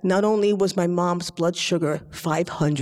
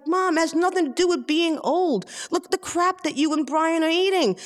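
higher-pitched daughterly protest; mild acted exasperation; 9 semitones higher than usual. Daughter arguing with mom about her eating, mildly exasperated. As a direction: plead your case with a touch of exasperation.

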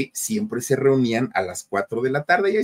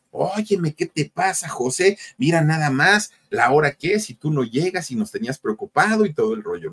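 higher-pitched mock telling-off; retold scolding; 5 semitones higher than usual. Friends scold José for arriving late, mock scolding. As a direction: act out worried friends scolding a latecomer. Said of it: "los amigos lo regañaron".

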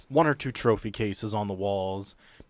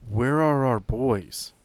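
tearing up; 2 semitones higher, 4 dB louder, slower than usual. Acted. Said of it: "She kinda starts to tear up".

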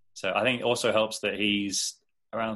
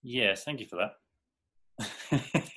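slow, drowsy mock sleepy voice; nodding off; much slower than usual. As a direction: drag it out like nodding off. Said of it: "Sorry, I, I fell asleep for a second there".

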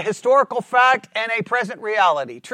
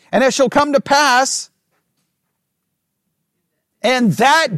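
raised, emphatic Bible reading; scripture reading; 3 semitones higher, 3 dB louder than usual. Acted. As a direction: proclaim the verse phrase by phrase. Reads scripture aloud to the class.

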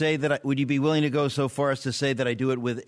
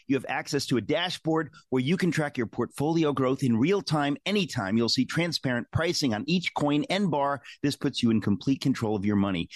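smooth sponsor read; 2 semitones higher than usual. Acted. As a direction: sell it like a radio ad. Host reads sponsor ad.

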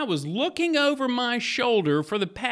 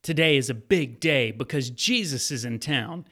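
story narration. Acted. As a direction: draw the listener into the scene. Retells Bible story over music.

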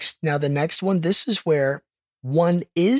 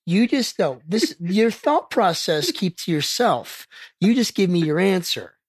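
higher, emphatic telling-off; mock scolding; 5 semitones higher than usual. Real, not acted. Host tells contestant off for fishing for answers, scolding. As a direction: scold them like a teacher catching a pupil.

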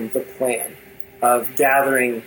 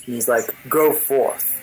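unearthly king. Acted. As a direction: speak down to the generals as a menacing ruler. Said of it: "And with this unearthly voice".

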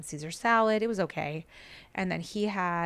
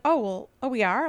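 surprised husband; 4 semitones higher, 6 dB louder than usual. Retold or imitated.

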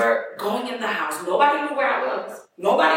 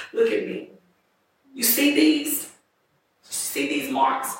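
put-on drunk slurred voice; 5 semitones higher, slower than usual. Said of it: "her voice was slurred".

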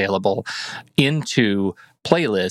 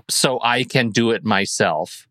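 slow, pointed passive-aggressive read; sarcastic, as if offended they had to do it themselves; drawn-out pointed passive-aggressive reading; slower than usual. Retold or imitated. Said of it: "the most passive-aggressive tone".

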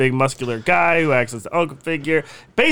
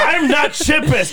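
high, slow, laughing protest; 12 semitones higher, 4 dB louder, slower than usual. Real, not acted. Laughing self-defence.

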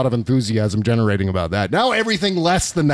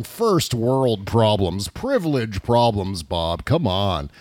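mock scolding self; 5 semitones lower, much slower than usual. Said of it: "I'm just hearing myself and going".

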